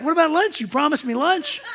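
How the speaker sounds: high-pitched, earnest insistence; earnest protest. Retold or imitated. Guest reminding coworker of promised lunch, acted earnest protest. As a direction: plead the case as if truly puzzled. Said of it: "And I was serious".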